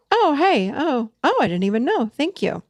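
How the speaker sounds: bright, surprised "oh, hey" of someone caught off guard; pleasantly surprised. Retold or imitated. Person receiving a clear request, pleasantly surprised. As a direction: sound caught off guard and grateful. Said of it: "people will go".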